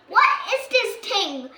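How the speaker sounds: confused high question. Acted. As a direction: sound baffled by it. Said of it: "asks Nanny Plum, a little confused".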